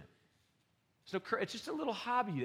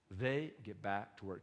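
quiet slow repeat; 7 semitones lower, 7 dB quieter, slower than usual. Shown as a demonstration. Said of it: "Church, you hear that?".

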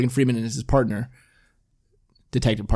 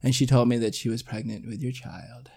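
soft, understated killer imitation; lightly acted quiet confession; Kevin Spacey; 6 dB quieter than usual. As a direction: deliver it softly as a hint of a movie villain. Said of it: "Kevin Spacey's like".

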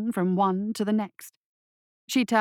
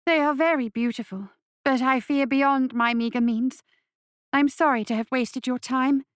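lady feigning regret; 4 semitones higher than usual. Acted.

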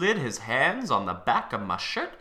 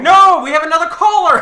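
radio host; 14 dB louder, faster than usual. Pretend. Mock radio host announcing.

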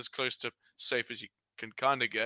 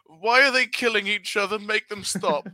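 put-on high, alarmed child-like voice; bewildered newcomer asking; naive confused fan; 7 semitones higher, 6 dB louder than usual. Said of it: "I'll be like".

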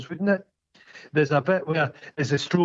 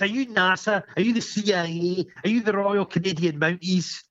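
higher-pitched string of challenges; mock interrogation; 6 semitones higher than usual. Film character challenges the officials' identity, mock incredulous. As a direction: quote the suspicious questioner, pitched up.

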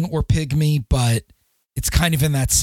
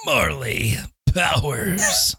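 slow, breathy "Marley Powers" whispered through laughter; a giggling hushed echo of the name; laughing whisper; much slower than usual. Shown as a demonstration. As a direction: whisper the name as you crack up.

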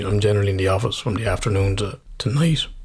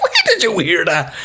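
laughing question; 6 semitones higher than usual. Retold or imitated. Laughing, asking child.

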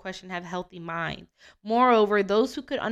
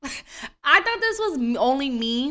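laughing; 5 semitones higher, 4 dB louder, slower than usual. Real, not acted. Laughs at the fun fact.

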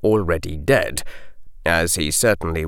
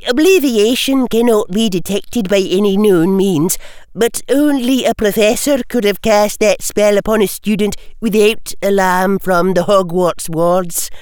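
crisp, higher Scottish-tinged professor; McGonagall; 13 semitones higher, 4 dB louder than usual. A narrator's reading. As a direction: answer briskly like a strict teacher. McGonagall voiced.

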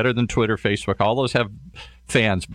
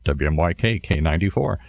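deliberately lowered radio DJ voice; voice brought down; 4 semitones lower than usual. Shown as a demonstration. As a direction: drop into a low station-ident voice. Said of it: "have to get my voice down here".

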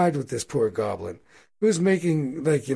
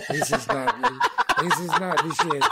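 laughing goblin; 11 semitones higher than usual. Acted. Goblins complaining, laughing through it.

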